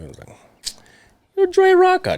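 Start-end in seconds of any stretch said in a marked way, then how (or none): 1.4-2.2 high, loud exclamation; retold hype. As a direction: hype your friend up in a raised pitch. Retelling a hyped-up reply to friend.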